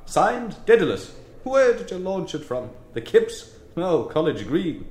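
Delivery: high-pitched, exuberant declaiming; joyful reading aloud. A narrator's reading. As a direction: read it out with theatrical delight. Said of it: "reading aloud joyfully".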